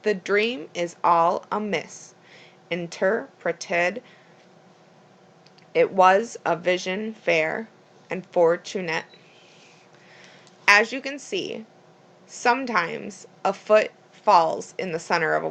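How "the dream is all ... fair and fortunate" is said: weak-strong beats: "the DREAM is ALL aMISS"; iambic line reading. Shown as a demonstration. Teacher reading the line from Julius Caesar, "the DREAM is ALL" in iambic stress. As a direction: scan "The dream is all amiss" aloud, stressing every second syllable. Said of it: "first syllable unstressed and the second".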